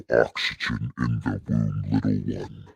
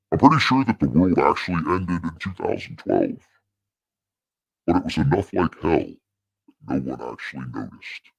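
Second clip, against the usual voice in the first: inner voice; 5 semitones higher than usual. Shown as a demonstration. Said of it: "let me let my inner voice tell you".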